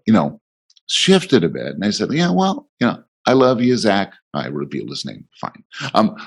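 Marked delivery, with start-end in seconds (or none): 2.1-4.1 calm. Retold or imitated. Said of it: "I was calm".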